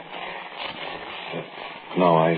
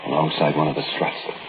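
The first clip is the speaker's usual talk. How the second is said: story narration. A narrator's reading.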